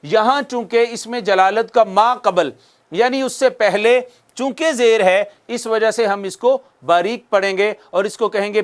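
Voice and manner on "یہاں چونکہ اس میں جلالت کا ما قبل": usual speaking voice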